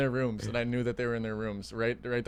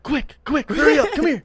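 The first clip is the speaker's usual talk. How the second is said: high, loud, hurried come here; hammed-up urgent summons; mock urgent call; 11 dB louder than usual. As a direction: fake an emergency to get them running. Urgently luring kids to trap.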